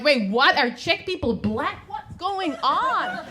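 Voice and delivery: puzzled and incredulous, imitating; confused American. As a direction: play up the confusion, stretching the question. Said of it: "that's very confusing".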